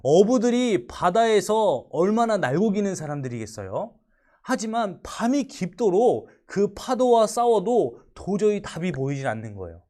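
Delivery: ordinary delivery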